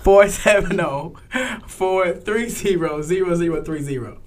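deliberate, spaced-out phone number; slowed down for clarity. Real, not acted. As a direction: spell the number out slowly and firmly. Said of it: "you said that really fast".

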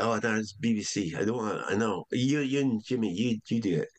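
lightly imitated Scottish accent. Comedy head handing writers the parts, imitated Scottish accent. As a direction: retell the decision in mock Scots. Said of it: "I was Scottish, by the way".

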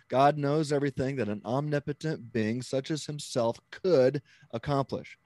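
COULD held long and punched; stress on COULD. Shown as a demonstration. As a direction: set "could" apart with heavy weight. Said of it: "the heavy emphasis on the word could".

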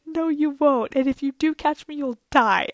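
high, loud panicky refusal; stressed protest. Retold or imitated. Stuck climber refuses dad's help, stressed protest. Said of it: "I'm, like, really stressed".

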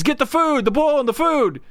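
hammed-up desperate command; frantic mock shout. Man at the door repeats his order, frantic mock shout.

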